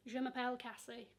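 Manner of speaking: Yorkshire-accented French greeting. Shown as a demonstration. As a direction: say bonjour like a Yorkshire lass. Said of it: "I speak French with a Yorkshire accent".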